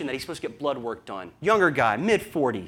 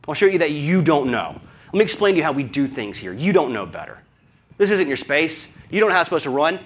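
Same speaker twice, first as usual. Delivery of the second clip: indignant lecture; 4 dB louder than usual. Retold or imitated. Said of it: "It's like".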